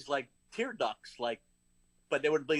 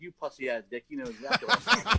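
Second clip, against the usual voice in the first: angry insult; 3 semitones higher, 5 dB louder than usual. Retold or imitated. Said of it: "that's how it was said".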